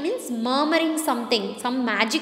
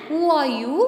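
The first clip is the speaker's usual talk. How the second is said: brave; 2 semitones higher, faster than usual. A narrator's reading. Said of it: "with a brave face outwards".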